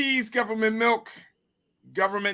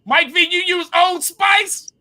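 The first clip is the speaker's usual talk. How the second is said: shouted teasing question; loud teasing; 8 semitones higher, 6 dB louder than usual. Real, not acted. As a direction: call him out loudly.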